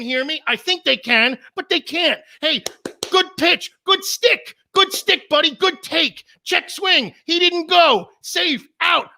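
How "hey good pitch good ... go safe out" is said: much higher fan yelling every call. Retold or imitated. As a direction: shout running commentary at the game. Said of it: "I'm yelling everything".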